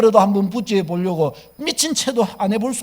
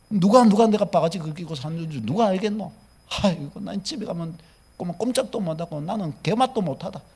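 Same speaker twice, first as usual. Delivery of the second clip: grumbling complaint; 4 semitones lower than usual. Retold or imitated. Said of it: "원망으로 기울어지기가 쉽습니다".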